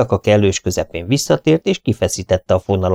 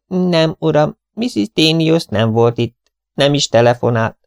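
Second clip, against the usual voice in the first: higher-pitched, measured servant's voice; manservant; 7 semitones higher than usual. Acted. Servant George reports to Poirot that nobody came, higher-pitched manservant voice. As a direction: answer as a manservant, pitched up and deliberate.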